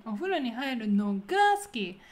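weight on お風呂に入るのが, 好き de-emphasized; focus on first part. Shown as a demonstration. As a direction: let 好き fall away after the pause. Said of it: "focus is the first part".

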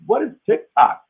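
high, baffled asking what TikTok is; puzzled question. Retold or imitated. Retelling his own confusion to the audience, high puzzled question. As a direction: act confused, voice jumping up.

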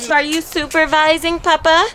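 put-on high, sing-song baby talk. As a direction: coo it to the baby. Mom cooing at baby.

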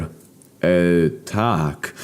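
stammered. Acted. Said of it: "zająknąłem się".

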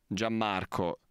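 low, smooth seductive streamer voice; sexy warm voice. Acted. Streamer putting on his sexy voice to scold Gianmarco, low and smooth. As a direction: pour on the low sexy radio charm. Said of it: "a fare la voce calda, a fare la voce sexy".

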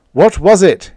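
high, loud stunned question. A narrator's reading. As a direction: blurt it out in shock. Collins stares wide-eyed.

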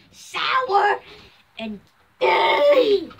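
loud high laughing words. Real, not acted. Laughing loudly.

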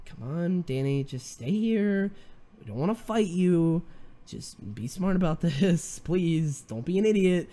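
lightly acted weary pleading; eye-rolling exasperation. Teammates trying to convince Danny to stay, mock exasperated. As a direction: drag it out like talking down a nuisance. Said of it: "rolling their eyes".

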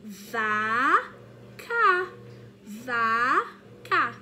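loud, drawn-out teacher word; teacher showing the card to children; loud word demo. Shown as a demonstration. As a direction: call the word out clearly. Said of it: "a próxima palavra que a tia vai mostrar".

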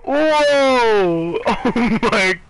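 high, slow amazed laugh; laughing exclamation. Real, not acted. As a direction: burst out laughing in disbelief. Reacting to game moment.

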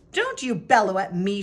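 storybook yell. A narrator's reading. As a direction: yell back at the neighbor. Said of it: "she yelled".

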